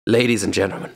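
showy auction host announcing the final lot; auctioneer. Acted. GM as auctioneer presenting the armor to the bidders, showy. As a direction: sell the lot with a host's flourish.

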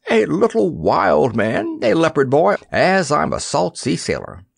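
gruff excited sea dog; old sailor voice. Acted. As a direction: boom it like an old salt. Old sailor character speaking.

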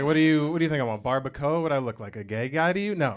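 incredulous comic challenge; mock indignation. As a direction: play offended at the very suggestion.

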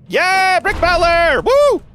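high, loud hype shout; excited cheer. Real, not acted. Streamer cheering her character into battle, loud and high. Hyped battle cry in game.

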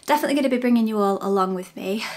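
breathless and rushed after the stairs; out of breath, talking fast. Real, not acted. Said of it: "Sorry, I'm out of breath".

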